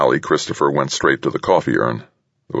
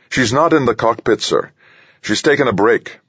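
put-on higher-pitched young officer's voice; troubled young captain; 9 semitones higher than usual. A narrator's reading. Young captain reporting to the general over the earpiece, troubled. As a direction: report uneasily to a superior, pitched well up. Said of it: "The young man's voice sounded clearly troubled".

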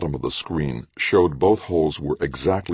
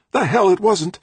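loud, high angry comeback; furious retort; 6 dB louder than usual. A narrator's reading. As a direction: throw it back hot-tempered and high. Trudy's temper boiling in quarrel.

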